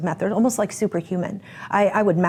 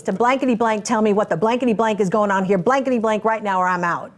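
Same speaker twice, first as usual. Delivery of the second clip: angry demand; 3 semitones higher than usual. Retold or imitated. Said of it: "I got angry and I said".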